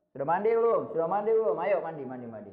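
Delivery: lightly firm fatherly call; father's bass intonation. Shown as a demonstration. Father checking the children have bathed, lightly firm bass intonation. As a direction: make the kids hear you, a touch of authority. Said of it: "Dengan intonasi bassnya".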